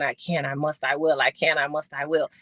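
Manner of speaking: low, steady self-affirmation; repeated mantra. Retold or imitated. Athlete reading her sign to herself daily, low steady mantra. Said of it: "I just said it over and over again".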